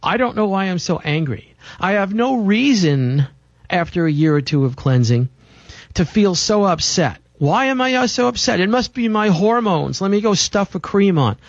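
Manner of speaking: half-acted puzzled complaint; confused upset client. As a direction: mimic someone baffled by their own tears. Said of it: "It sounds like this".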